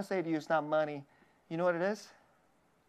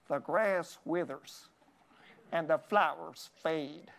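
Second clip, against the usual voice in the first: Southern preacher drawl; 3 semitones lower, slower than usual. Retold or imitated. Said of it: "so he sounded like this".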